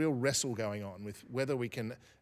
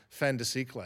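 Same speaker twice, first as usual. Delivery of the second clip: French accent. Shown as a demonstration. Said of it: "excuse my French accent".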